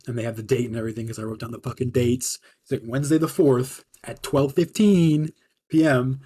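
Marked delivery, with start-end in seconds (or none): 2.9-6.2 slow, stiff, formal read-out; official report reading. Retold or imitated. Boss reading the written report to the chef, formal and slow. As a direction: read it like a dry military report. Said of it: "reads it off like it's some fucking official military report".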